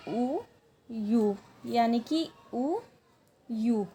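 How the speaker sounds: ऊ and यू as two separate vowels, a pause between; Korean pronunciation. Shown as a demonstration. Teacher showing learners the Korean word for milk, sounded out. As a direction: sound out "ऊ ... यू" syllable by syllable. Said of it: "milk को मैंने अभी बताया कहते हैं".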